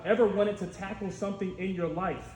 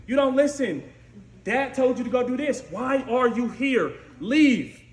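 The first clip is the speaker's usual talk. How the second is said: louder, higher scolding from a big brother; angry older brother; 4 semitones higher, 5 dB louder than usual. Retold or imitated. Eliab scolding young David, loud and angry. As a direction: tell him off and send him away. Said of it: "He gets upset. He's like".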